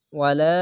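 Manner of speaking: ওয়ালা with the last aa held one count; long vowel. Shown as a demonstration. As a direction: draw out the la of ওয়ালা. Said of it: "এক আলিফ টেনে পড়বেন". (ওয়ালা-র লা এক আলিফ টেনে)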